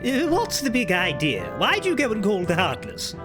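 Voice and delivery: lightly voiced grumpy duck; a hint of an indignant duck; Donald Duck voice. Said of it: "Donald Duck voice".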